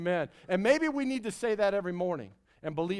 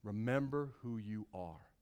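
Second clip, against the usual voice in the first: put-on soft, lower parent's parting words to a child; parent's send-off; 6 semitones lower, 7 dB quieter than usual. Parent sending a kid off into the world, soft tender reminder. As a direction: gently remind your kid as they leave home. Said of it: "And so you tell them".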